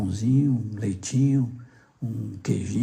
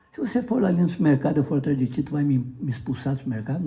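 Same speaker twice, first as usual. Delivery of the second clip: retold persistent questioning; faster than usual. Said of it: "Deixa eu fazer uma pergunta".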